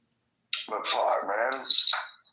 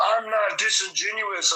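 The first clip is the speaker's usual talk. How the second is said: mocking high voice; 8 semitones higher than usual. Retold argument, mimicking the other.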